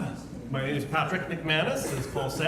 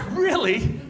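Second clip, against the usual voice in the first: high, sharp mock disbelief; incredulous; 11 semitones higher, 5 dB louder than usual. Driver mocking a cyclist, incredulous high really. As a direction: really, come on.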